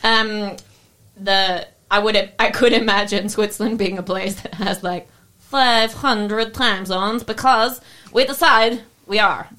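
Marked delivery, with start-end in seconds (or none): 5.4-9.5 put-on slow, hammy Russian accent; lightly put-on Russian dictator accent. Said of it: "Oh, the Russian accents come back".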